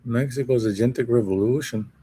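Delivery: light, put-on Mexican accent; Mexican businessman accent. Streamer reading a headline, lightly faked Mexican businessman accent. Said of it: "don't know what type of an accent this is supposed to be".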